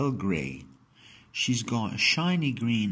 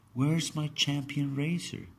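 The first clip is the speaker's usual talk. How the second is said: imagined Grandad; 9 semitones higher than usual. Retold or imitated.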